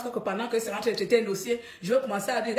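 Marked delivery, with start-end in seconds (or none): none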